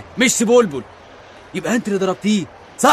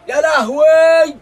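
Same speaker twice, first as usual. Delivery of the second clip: loud, drawn-out cry of dismay; alarmed wail; 6 semitones higher, 7 dB louder, much slower than usual. Acted. Man seeing the station missed, alarmed wail. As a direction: wail it high and long in alarm. Crew wails as station is passed.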